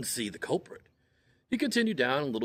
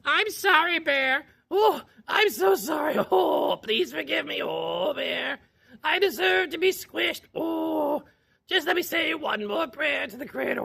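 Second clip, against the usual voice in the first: very high, loud crying plea; pleading chipmunk; 3 dB louder than usual. Acted. Pinned Chipmunk begging Bear for mercy in a very high sobbing squeak. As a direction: beg for mercy in hammed-up sobs.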